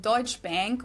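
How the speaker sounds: Deutsche Bank as DOYTCH BANK, English vowel in Bank; American pronunciation. Shown as a demonstration. German host shows how Americans say it, American-style Deutsche Bank, DOYTCH BANK. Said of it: "Americans usually pronounce it".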